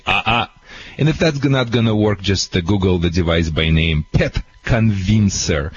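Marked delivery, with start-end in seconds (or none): 0.1-0.5 two short scolding syllables; brief no-no "ah, ah" to a dog; corrective "ah, ah". Shown as a demonstration. Trainer shows what to say while pressing gently, short corrective sound. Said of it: "press it gently as you say".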